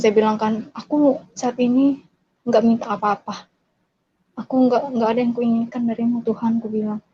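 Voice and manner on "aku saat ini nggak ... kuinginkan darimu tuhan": soft, understated prayer to God; quietly addressing God, retold. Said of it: "saya berdoa ke Tuhan".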